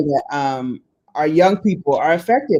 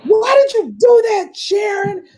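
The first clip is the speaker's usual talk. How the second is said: little niece demanding why, much higher; imitating niece. Niece questioning aunt.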